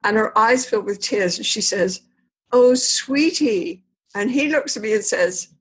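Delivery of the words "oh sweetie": slow, tender "Oh, sweetie"; tender, softened. Retold or imitated. Wife melting toward her husband, slow and tender. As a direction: let your face soften as you say it. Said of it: "her whole face softens".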